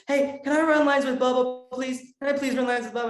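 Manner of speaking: put-on high, eager kid begging; imitated excited little brother. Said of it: "My little brother was also very excited".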